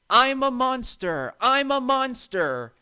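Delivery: high, loud, slow teasing monster call; mock monster shout. A narrator's reading. James pranking Percy in the shed, hammed-up monster shout. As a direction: ham it up to frighten Percy. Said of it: "James shouted".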